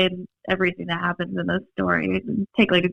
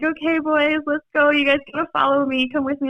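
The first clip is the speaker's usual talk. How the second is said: high, hurried big-sister voice; trying to sound brave for the boys; calming little brothers; 7 semitones higher than usual. Retold or imitated. Teen sister hurrying little brothers to safety, high and urgent. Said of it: "I'm starting to cry".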